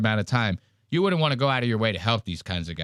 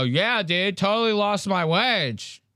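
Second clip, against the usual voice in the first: high drawling bro sneer; mocking frat bros; 7 semitones higher than usual. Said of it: "They go".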